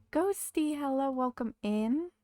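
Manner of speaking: bright high welcome to a new viewer; excited greeting. Real, not acted. Streamer greeting a new viewer, excited. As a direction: sing out a cheery hello.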